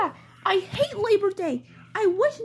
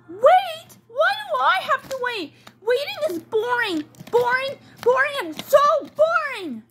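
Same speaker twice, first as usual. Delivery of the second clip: bratty doll complaining about waiting; whiny complaint; 2 semitones higher than usual. Acted. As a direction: whine like a bratty kid. Grumpy doll whines about waiting.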